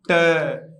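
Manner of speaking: "ट" as a clipped t with weak vowel; teacher drills the weak "ट"; short t sound. Shown as a demonstration. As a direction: repeat "ट" with no oo sound. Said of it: "टू नहीं दोस्तों".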